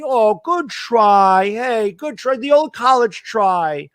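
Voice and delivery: slow, drawn-out sarcastic praise; mock consolation. Offering a mock participation trophy, slow and sarcastic. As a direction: pat them on the head.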